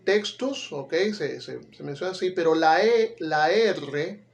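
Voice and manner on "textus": "textus" with a clear K and S; "textus" pronounced the Latin way; Latin pronunciation. Shown as a demonstration. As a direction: give "textus" its Latin sound, carefully. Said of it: "cuando hablas en latín".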